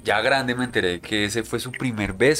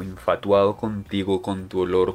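poético; 3 semitones lower than usual. Pretend. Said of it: "A mí me parece que suena poético".

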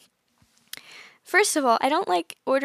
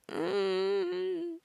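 awkward "mm"; 5 semitones higher, 7 dB quieter than usual. Acted. Awkward after ordering.

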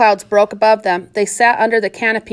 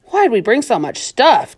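grumbling; slower than usual. Acted. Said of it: "Tiller grumbled".

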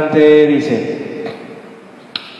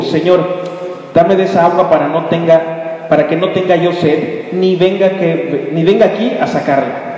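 sarcastic; 3 semitones higher than usual. Acted. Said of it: "está siendo sarcástica".

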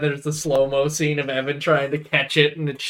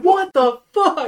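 slow, high, loud disbelief; shocked outburst; 13 semitones higher, 5 dB louder, slower than usual. Retold or imitated. Girl reacting to him passing out, shocked. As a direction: draw it out in mock shock.

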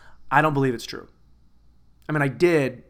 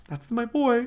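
much higher proud cheer; acted high-pitched approval; mock proud parent; 9 semitones higher than usual. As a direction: play a parent delighted with their son. Imagined proud parent's reaction.

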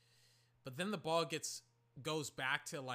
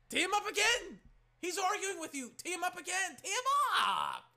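high, loud mock yell at the refs; 8 dB louder than usual. Mock fan yelling at refs.

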